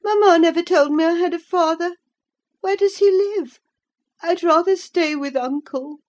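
put-on high, fast childish voice, anxious; a frightened little boy protesting; fretful child. A narrator's reading. Sickly boy Linton voiced.

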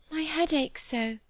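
wistful. A narrator's reading. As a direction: complain softly of a headache. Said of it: "lifting her heavy eyes wistfully".

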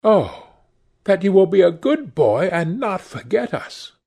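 a touch of fond teasing; fond, smiling girl. Acted. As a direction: smile through the words. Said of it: "she answered, smiling at him".

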